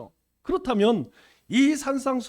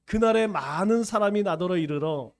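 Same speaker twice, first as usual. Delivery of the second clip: scripture reading. Acted. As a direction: read the verse aloud with the congregation. Leads congregation reading scripture. (회중과 함께 성경을 엄숙하게 낭독)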